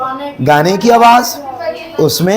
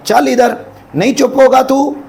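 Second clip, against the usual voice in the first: angry mother; 8 semitones higher than usual. Acted. Wife drags child away.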